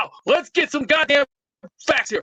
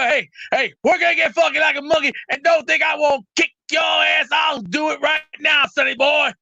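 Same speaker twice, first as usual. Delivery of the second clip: Dusty Rhodes impression; 2 semitones higher than usual. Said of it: "I'll go Dusty Rhodes out here and go".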